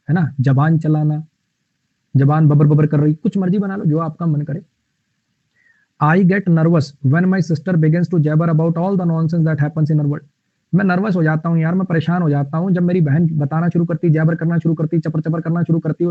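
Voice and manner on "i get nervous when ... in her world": very slow, deliberate reading; slow dictation. Shown as a demonstration. Teacher reads the example sentence to students, very slowly. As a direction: lay each word down for the class.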